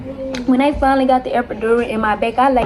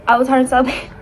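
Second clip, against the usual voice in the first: laughing; faster than usual. Real, not acted.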